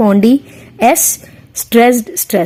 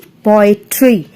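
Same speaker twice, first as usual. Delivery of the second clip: "पोएट्री" slowly drawn out in its syllables; teacher slowly spelling out the beats of "पोएट्री"; syllable-by-syllable demo; 2 semitones lower, much slower than usual. Shown as a demonstration. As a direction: sound out "पोएट्री" slowly for a class. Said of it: "पो, stressed".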